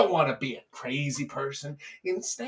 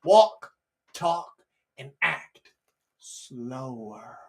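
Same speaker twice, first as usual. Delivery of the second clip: slowed down; 4 semitones lower, much slower than usual. Shown as a demonstration. Demonstrates slowing down the tip.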